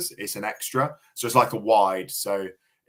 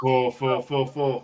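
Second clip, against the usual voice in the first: excited cheering; 3 semitones higher, slower than usual. Real, not acted. Celebrating a boundary.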